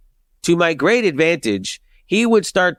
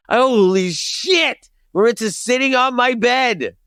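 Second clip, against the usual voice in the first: higher, drawn-out alarmed exclamation; retold panic; 5 semitones higher than usual. Teen realizing his father will find Maritza, acted panic. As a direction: stretch out the mock panicked realization.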